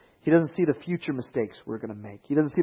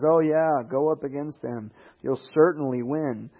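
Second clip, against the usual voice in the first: mock-encouraging "go up against them", lightly voiced; sarcastic. Prophet mocking the king of Israel before the war, sarcastic. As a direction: play along with a sly, sarcastic edge. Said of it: "sarcastically plays along".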